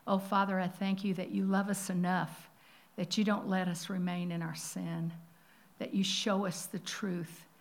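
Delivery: earnest, measured prayer voice. Acted. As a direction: lead the church gently in prayer. Leads congregation in prayer.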